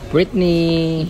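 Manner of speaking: high, loud call across the room. Real, not acted. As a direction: call her name out loud. Greeting arriving relatives.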